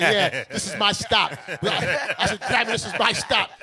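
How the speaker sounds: slow, laughing mock urgency. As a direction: drawl it out while laughing. Desperate to leave the train.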